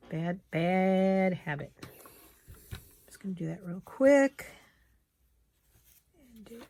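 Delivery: mumbling past a needle; needle in mouth. Real, not acted. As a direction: talk through lips holding a needle. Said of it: "I have a needle in my mouth".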